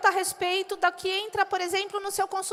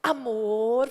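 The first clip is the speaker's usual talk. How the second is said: lower, lightly tender cooing; a hint of a sweet tender call; mock tender; 6 semitones lower, much slower than usual. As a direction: coo at someone. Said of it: "chega pra alguém e fala".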